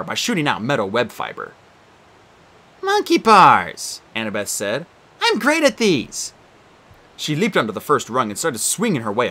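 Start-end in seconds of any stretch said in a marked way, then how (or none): 2.8-4.0 slow, high and loud delight; thrilled at the monkey bars; eager. Acted. 5.2-6.3 high, slow, cocky; proud brag about monkey bars; confident boast. Acted. Annabeth boasting.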